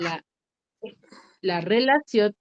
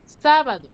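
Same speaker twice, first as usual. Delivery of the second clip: SÁ of sábado higher and louder; stress on SÁ; 4 semitones higher, 5 dB louder than usual. Shown as a demonstration. Teacher asks for the stressed syllable, SÁ punched in sábado. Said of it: "Cuál es la sílaba tónica".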